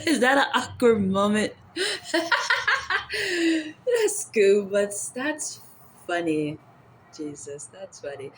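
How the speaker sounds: words through real laughter; laughing. Real, not acted. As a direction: laugh while asking. Laughing at prank caller.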